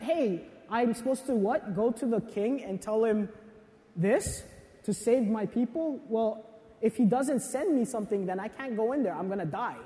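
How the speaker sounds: Esther afraid to face the king, softly fearful; mock frightened Esther. Esther voiced in a retold story.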